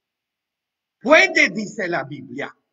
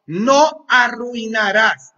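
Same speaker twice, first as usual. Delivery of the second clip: firme al diablo; 2 semitones higher, 5 dB louder, slower than usual. Acted. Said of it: "Esa es la palabra".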